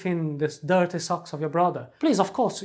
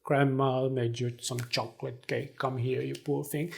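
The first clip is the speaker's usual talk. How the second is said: grandma voice; 3 semitones lower than usual. Pretend. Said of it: "your grandmother will say".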